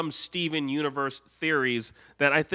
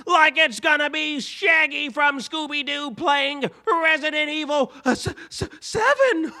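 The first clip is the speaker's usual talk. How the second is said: much higher, louder, laughing Shaggy impression; 12 semitones higher, 6 dB louder than usual. Shown as a demonstration. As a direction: break into Shaggy mid-sentence, giggling. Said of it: "I wasn't ready to do that voice".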